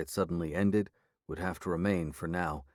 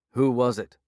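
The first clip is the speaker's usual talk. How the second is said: a louder, sharp demand; 4 semitones higher, 7 dB louder than usual. A narrator's reading. Sheriff demanding an answer from the prisoner, loud and firm. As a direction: press him hard for a name. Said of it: "she demanded".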